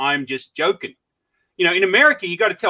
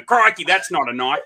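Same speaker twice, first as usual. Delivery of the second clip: Crocodile Dundee. Retold or imitated. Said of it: "watch Crocodile Dundee once a month just to keep the accent".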